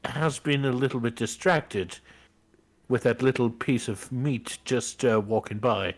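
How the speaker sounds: lively play-by-play commentary; sports commentary. Acted. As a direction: call the match like a sportscaster. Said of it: "I love your commentary".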